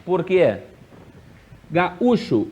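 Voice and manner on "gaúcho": "Gaúcho" with the U leaned on strongly; "Gaúcho", U strong, falling after it; stress on the U. Shown as a demonstration. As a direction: punch the middle U of "Gaúcho". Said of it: "o U é tônico? É forte?".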